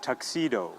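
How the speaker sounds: "tuxedo" as tuk-SEE-doh, last o sounded; final O pronounced. Shown as a demonstration. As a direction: model tuxedo with its full final oh. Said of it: "Okay, not".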